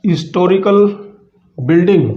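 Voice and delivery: हिस्टोरिकल begun on the vowel, as "istorical"; silent h. Shown as a demonstration. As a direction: drop the opening h of हिस्टोरिकल. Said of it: "यहाँ पर भी एस silent है".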